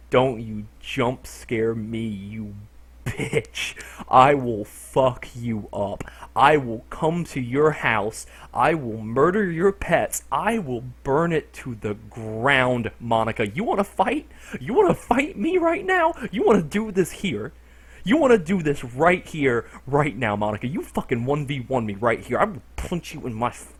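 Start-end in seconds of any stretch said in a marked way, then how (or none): 0.1-13.5 mock threatening. Real, not acted. Threatening game character after scare. 13.5-22.4 taunting challenge. Real, not acted. Challenging the character.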